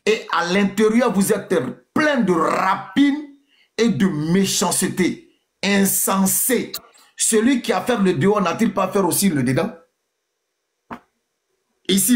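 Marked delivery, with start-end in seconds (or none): 0.1-9.7 lecture solennelle. Acted. Lit un verset biblique à voix haute.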